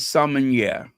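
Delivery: "sommelier" the French way, "sum-in-YEH"; French pronunciation. Shown as a demonstration. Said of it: "That's how they say it in France".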